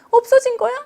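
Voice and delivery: put-on high, plaintive little girl's question; upset child. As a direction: ask it like a teary small child. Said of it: "막 이러면서 울더라고요".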